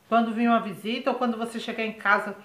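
talking with a mouth full. Real, not acted. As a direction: speak around a bite of food. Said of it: "Eu de novo falando de boca cheia".

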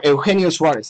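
name said with Spanish pronunciation; Spanish accent. Real, not acted. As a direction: give the name its Spanish sounds. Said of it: "say it in my Spanish accent".

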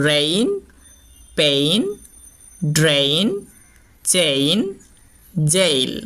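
English words, each said slowly and clearly; example words said carefully. Shown as a demonstration. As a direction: model each word for the class. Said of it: "যেমন". (উদাহরণ শব্দ স্পষ্ট করে)

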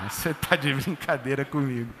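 low, soft disbelieving aside; incredulous woman. Retold or imitated. (incrédula, baixinho)

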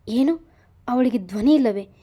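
as if it just hit him; stunned disbelief; shocked. Acted. Shocked discovery.

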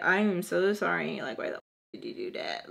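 hushed, remorseful aside to oneself; self-talk. Retold or imitated. Talking to herself in the shower, hushed self-reproach. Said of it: "I'm talking to myself".

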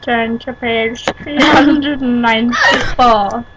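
slow words round a mouthful; mouth full. Real, not acted. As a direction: talk with food in mouth. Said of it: "Sounds weird 'cause I have something in my mouth".

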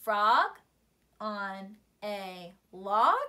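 small rise at the end; rising question tune. Shown as a demonstration. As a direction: lift the voice on log like asking. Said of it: "do a little raise in our voice at the end".

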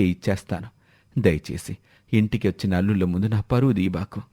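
meek, pleading voice of a poor farmer; pleading old father. Acted. Debtor pleads with lender.

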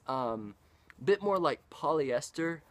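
ordinary talk, nothing marked

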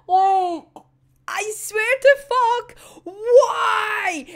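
high, loud cry of disbelief; exasperated wail. Real, not acted. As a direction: wail it out, upset at the story. Exasperated at the character's choice.

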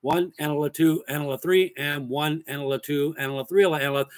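spoken snare pattern, steady pulse; counted-out drum rhythm. Shown as a demonstration. Drum teacher showing the repeated snare part, rhythmic counting. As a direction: recite "one, analyte two, analyte three" in even time. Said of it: "This snare part".

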